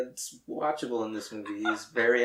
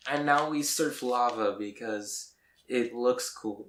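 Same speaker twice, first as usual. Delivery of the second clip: louder and higher, building hype; mock excited; 3 semitones higher, 4 dB louder than usual. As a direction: rattle off each idea eagerly. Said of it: "it's just like".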